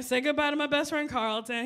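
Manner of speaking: ordinary talk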